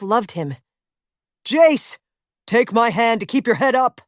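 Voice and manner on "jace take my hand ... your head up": loud call across the ice, then pressing; yelling. Acted. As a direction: shout his name, then urge him. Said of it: "he yelled".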